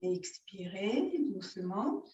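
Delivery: measured yoga-teacher guidance with long pauses; unhurried breathing-exercise guidance; guided yoga instruction. Real, not acted. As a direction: lead the breathing exercise phrase by phrase, drawing out the key words.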